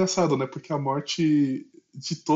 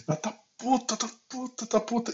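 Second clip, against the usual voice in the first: raised high, then fading softer; higher each time, falling away; high emphatic repetition; 9 semitones higher, 5 dB quieter than usual. Real, not acted. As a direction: pitch it way up. Repeats that she is furious.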